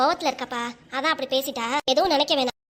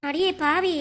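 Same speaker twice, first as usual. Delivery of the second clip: aggrieved scolding, slightly raised pitch; hurt reproach; 3 semitones higher than usual. Acted. Mother to daughter who walked off on her, hurt reproach. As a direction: reproach her for being ungrateful.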